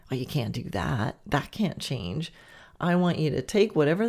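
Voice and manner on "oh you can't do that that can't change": lower, softer sneering gremlin; a lightly voiced little gremlin, low and soft; brain gremlin. Nagging gremlin in your head, low and soft. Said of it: "a brain gremlin saying".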